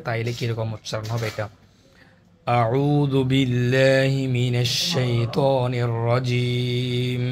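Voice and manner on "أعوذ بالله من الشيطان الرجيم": slow, drawn-out chanted recitation; Quran recitation. Real, not acted. Teacher opening the Quran lesson for students, in slow recitation. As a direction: intone each word slowly, like reciting in prayer.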